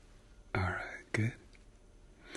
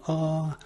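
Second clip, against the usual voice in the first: saying ahh; 4 semitones higher than usual. Shown as a demonstration. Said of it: "wide as you can".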